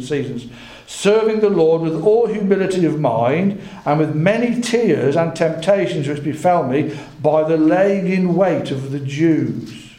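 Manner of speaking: measured, emphatic Bible reading; scripture reading. A narrator's reading. Preacher reads Paul's words to the elders aloud, scripture reading. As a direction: read scripture out to the congregation.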